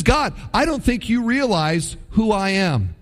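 plain, lightly voiced protest; a touch of indignant protest; Gideon protesting. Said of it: "He says".

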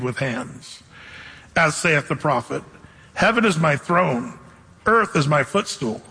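slow, measured reading of scripture. Acted. Preacher reading scripture to the congregation, slow and solemn. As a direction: read the verses slowly, with weight.

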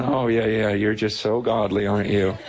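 low, dry mock agreement; mildly sarcastic. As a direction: humor a boaster with pretend praise. God mocks his self-praise.

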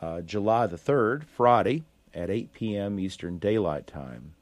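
steady radio forecast read; weather report read. Acted.

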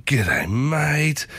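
sarcastic Aussie greeting. Shown as a demonstration. Radio host showing mate used as sarcasm, sarcastic. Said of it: "or sarcasm".

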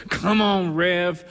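imitated congregation call; congregant's shout-out. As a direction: lightly imitate a fired-up churchgoer egging on the preacher. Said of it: "hear someone in the congregation go".

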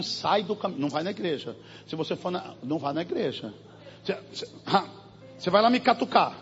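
quiet, threatening inner voice; a low, sneering tormentor; menacing oppressor. Retold or imitated. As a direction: mutter threats like the enemy in her head. Voicing the oppressing enemy.

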